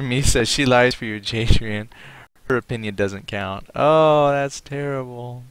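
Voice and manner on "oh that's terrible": loud, high, drawn-out fake indignation; mock outrage. Teasing a chat viewer who says his wife lies, mock outrage. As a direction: overplay being shocked on her behalf.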